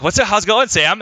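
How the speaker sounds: high sing-song hello to the cat; cat-greeting voice. Retold or imitated. Owner greeting his cat in high voice.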